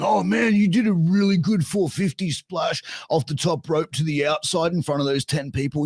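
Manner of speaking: high-pitched, hammed-up fanboy flattery; mock admiration, over-sweet and high; mock gushing praise. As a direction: gush sarcastically, pitched well up. Mocked gushing praise between wrestlers.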